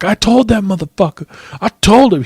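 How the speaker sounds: high-pitched mock outrage; crowing indignantly in a put-on high voice; worked-up impression of old man. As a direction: imitate a riled-up little old man. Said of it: "he was so fucking G'd up".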